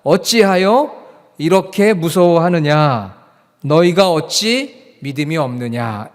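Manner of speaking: slow, loud, deliberate recitation; memory-verse recitation. Shown as a demonstration. Pastor leads congregation reciting the verse from memory, slow recitation. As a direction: chant it out for all to follow. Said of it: "외워보겠습니다".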